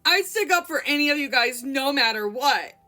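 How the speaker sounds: a hint of high tearful wail; lightly voiced sobbing plea to friends. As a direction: plead through tears. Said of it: "she wailed".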